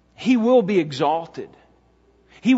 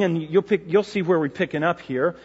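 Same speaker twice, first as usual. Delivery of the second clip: normal talking voice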